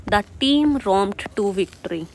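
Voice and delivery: correct version. Shown as a demonstration. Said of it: "गलत हो जाएगा".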